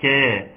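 "كا" with a thin, fronted vowel; light K. Shown as a demonstration. Teacher shows tarqiq to students, a thin, light "كا". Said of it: "ترقيق الكاف".

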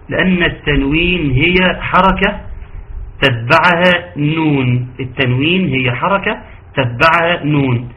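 slow stressed teacher explanation; slow emphatic explanation. Shown as a demonstration. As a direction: draw each word out, slowly. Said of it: "teacher stresses the definition".

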